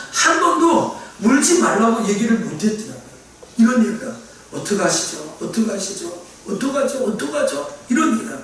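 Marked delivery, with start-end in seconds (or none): 4.5-7.7 helpless condolence. Retold or imitated.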